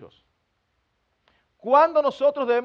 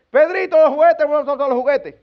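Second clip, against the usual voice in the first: vague mumbled order; 3 semitones higher, 5 dB louder than usual. Retold or imitated. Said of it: "usted no puede pasar por".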